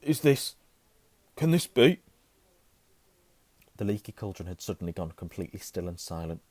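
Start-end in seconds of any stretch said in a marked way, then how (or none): 0.0-2.0 halting, louder and higher disbelief; amazed barman. A narrator's reading. Barman peers at Harry, amazed. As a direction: falter in astonishment, voice lifting. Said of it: "peering at Harry".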